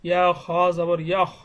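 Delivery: measured, level letter-by-letter recitation; teacher's steady syllable-by-syllable chant; Qaida spelling recitation. Shown as a demonstration. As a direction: spell it out evenly, drawing out the long vowels. Spells out Arabic reading primer.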